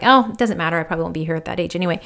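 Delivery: matter of fact. Retold or imitated. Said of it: "just as a matter of fact".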